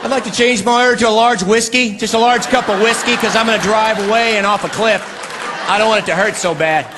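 desperate husband. Acted. Husband begging the barista.

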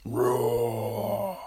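a hammed-up macho eagle roar; manly mock roar. Picturing a bald eagle's scream, playful manly roar. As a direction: roar it out like a tough, manly bird. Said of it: "it'd be all husky".

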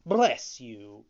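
loud quick blessing; cried out. Acted. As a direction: call it out brightly. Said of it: "cried Pinocchio".

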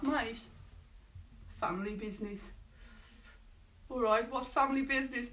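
mock Brummie accent, badly faked. Acting out a Peaky Blinders exchange, bad Brummie accent. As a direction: have a go at a Birmingham accent. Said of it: "that was a bad accent".

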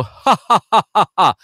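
high, loud, punchy ha ha ha; supported ha. Shown as a demonstration. Coach demonstrating support for the class: punchy ha's. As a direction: punch each ha from the belly. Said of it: "I want you to go".

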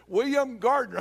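calling a patient by full name. Retold or imitated. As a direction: lightly imitate a receptionist's announcement. Receptionist calls the full name.

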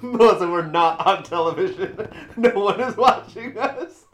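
laughing. Real, not acted. Laughing at co-host's hand calculator.

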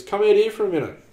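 loud high call, longer on out; dad calling mum a second time; calling out again. Retold or imitated. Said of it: "he sings out to me mum".

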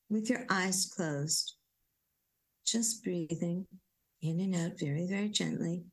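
gentle guided-exercise voice; guided relaxation. Acted. Coaching listeners through bilateral tapping, gentle guided voice.

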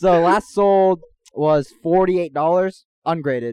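eager intern. Pretend. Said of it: "you talking like an intern again".

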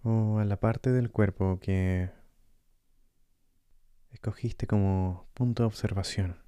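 calm meditation guide with long pauses; guided meditation. Acted. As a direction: gently guide the listener through breathing, leaving space between phrases.

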